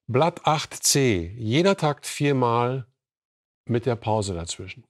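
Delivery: slow, deliberate dictation; strict teacher. Acted. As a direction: spell out each word for the class. Teacher dictating exercise to class. (langsames Diktieren)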